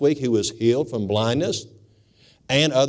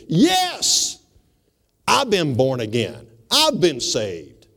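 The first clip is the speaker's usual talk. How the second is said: emphatic certainty; much slower than usual. Retold or imitated. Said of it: "emphatically know without hesitation".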